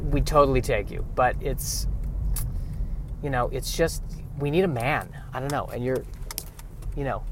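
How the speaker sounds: a polite alien breaking bad news, mostly hushed; apologetic alien. Aliens reject him for repopulation.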